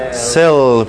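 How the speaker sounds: "Cell" with a slightly closed E, slow and falling; cell with a half-closed E. Shown as a demonstration. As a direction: model the word "Cell", drawn out on a half-closed E. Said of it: "con una, una E medio cerrada".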